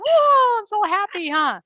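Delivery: high, loud squeaky parrot voice; voicing the parrot. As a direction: play the thrilled bird. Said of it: "and she's like".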